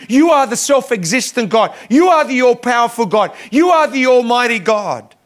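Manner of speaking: slowing on the last title, full preaching force; fervent proclamation. Acted. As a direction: proclaim God's names like a rising sermon call. Preacher proclaims Hezekiah's prayer.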